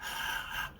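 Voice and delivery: soft scared exhale; scared breath. Retold or imitated. Girlfriend scared of his questioning, imitated nervous breath. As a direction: let out a nervous, voiceless breath. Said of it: "she got scared".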